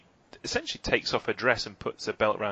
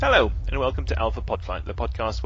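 upbeat host intro; 3 semitones higher than usual. Acted. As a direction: sell the show title like a presenter. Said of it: "followed by me saying".

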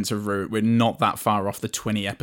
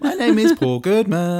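put-on high voice; 9 semitones higher, 4 dB louder than usual. Puppet voice introduction.

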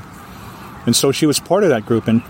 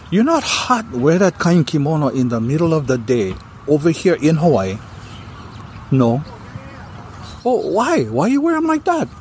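pitched-up prying local auntie voice; high nosy auntie; 3 semitones higher than usual. Retold or imitated. Woman quizzing her friend on the street, high and nosy.

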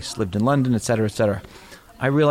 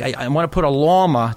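put-on Boston accent; 3 dB louder than usual. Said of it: "different accent".

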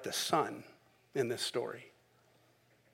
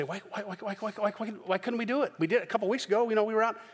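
higher, whining why why why; whining disciples; 5 semitones higher, faster than usual. Acted. Preacher mimicking disciples' whiny complaint.

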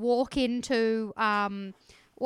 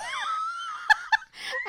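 squealing high laugh. Real, not acted. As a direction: burst into a shrieking giggle. Laughing at own helium voice.

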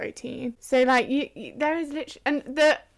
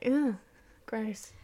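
annoyed ugh; 5 dB quieter than usual. Retold or imitated. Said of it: "men are like".

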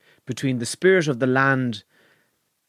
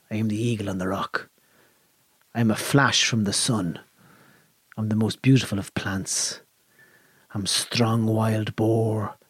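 poem recitation; 3 semitones lower than usual. Acted. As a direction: intone it like an ancient bard. Reciting ancient Irish poem.

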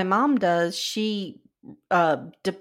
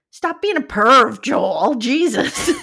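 loud, exasperated scolding; hammed-up flipping out; 3 semitones higher, 8 dB louder, slower than usual. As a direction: tell someone off at high volume, half laughing. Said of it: "Claire flips out and he".

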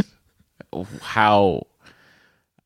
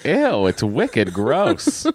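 put-on Boston accent; 10 semitones higher than usual. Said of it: "read in a Boston accent".

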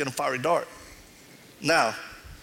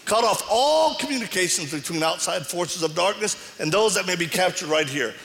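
fervent deliverance prayer, rising in command; 3 semitones higher than usual. Retold or imitated. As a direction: pray it out with authority, like binding a spirit. Retells his deliverance prayer.

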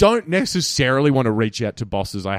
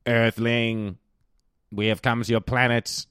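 lightly voiced alien visitor. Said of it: "I'll play the role of aliens".

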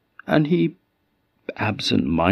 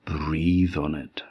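slow hushed whisper; whispered instruction; 3 semitones lower, 5 dB quieter, slower than usual. Acted. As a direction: breathe the words out, barely voiced. Stranger's quiet healing instruction.

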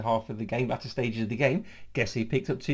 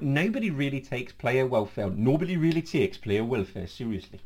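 put-on Sunderland accent. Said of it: "I'm trying to do his Sunderland accent".

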